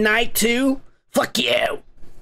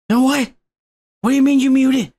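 higher, indignant disbelief; can't believe what he's hearing; incredulous disbelief; 4 semitones higher, 4 dB louder than usual. Real, not acted. Outraged at TikTok muting videos.

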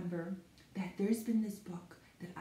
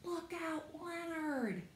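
demo warning; 9 semitones higher, 5 dB quieter, slower than usual. Shown as a demonstration. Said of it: "we're gonna say".

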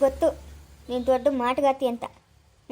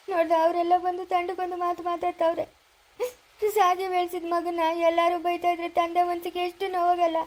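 crying father; 2 semitones higher than usual. Acted. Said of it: "ನೀನ್ ಅಳ್ಬೇಡಪ್ಪ".

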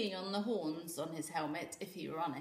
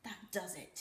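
growling; 6 dB quieter than usual. A narrator's reading. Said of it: "he growled".

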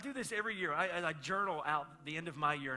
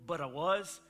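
mock scolding dad; 3 semitones higher, 7 dB louder than usual. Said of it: "wanted to bust up in that conversation and be like".

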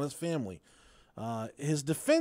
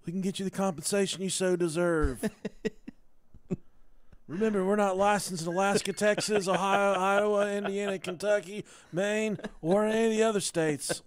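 fast, eager injury-lawyer ad read; lawyer commercial voice; 3 semitones higher than usual. Pretend. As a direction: pitch it like a cheesy TV lawyer. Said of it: "spot-on impression".

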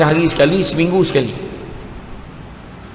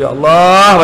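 loud, drawn-out cry to God; acted penitent wail; pleading cry; 2 semitones higher, 6 dB louder, slower than usual. Shown as a demonstration. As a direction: call out imploringly, swelling on the name. Models tearful plea of repentance.

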